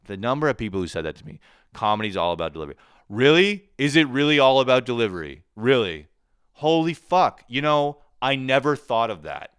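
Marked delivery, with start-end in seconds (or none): 1.7-2.8 fast, smug parroting of the advice; mock know-it-all. Mocking advice he got. 3.1-9.5 high, loud, mock-astonished; sarcastic fake amazement. Sarcastic reply to comedy advice.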